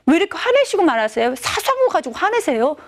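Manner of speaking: mildly indignant daughter, pitch climbing; lightly acted teenage complaint; protesting teen. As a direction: talk back to dad as a miffed kid. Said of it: "예린이 그런 말이에요".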